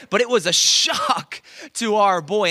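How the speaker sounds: slow, loud, laughing through "shock"; laughing shout. Real, not acted. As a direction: laugh out the punchline to the crowd. Preacher laughing at son's shock.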